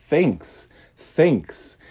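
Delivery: "thanks" with tongue between teeth. Shown as a demonstration. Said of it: "lembre como é que fala obrigado".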